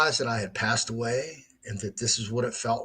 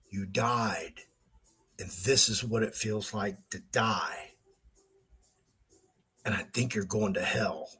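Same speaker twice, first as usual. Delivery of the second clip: hushed inner voice; 3 semitones lower, 7 dB quieter than usual. Retold or imitated. Inner thought while dying.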